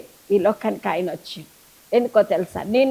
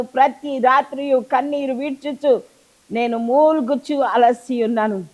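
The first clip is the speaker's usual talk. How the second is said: steady solemn Bible reading; measured psalm reading, voice lifting on each Lord; scripture reading. Acted. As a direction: read the psalm out to the congregation. Reads Psalm six aloud.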